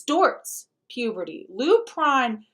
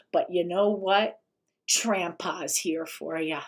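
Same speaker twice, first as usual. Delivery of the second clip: mocking the influencer; 4 semitones lower than usual. Host parodies influencer love-bombing kids, lower mock croon. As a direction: coo it like a fake-caring guru wooing kids. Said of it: "You hear the love bombing?".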